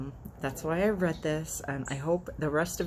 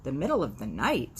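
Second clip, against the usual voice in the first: surprised; 2 semitones lower than usual. Acted. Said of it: "said the cow in surprise".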